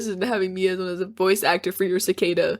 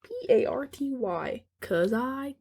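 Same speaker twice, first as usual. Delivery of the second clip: Jim Carrey quote; 7 semitones higher, 6 dB quieter, much slower than usual. Retold or imitated. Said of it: "where he's like".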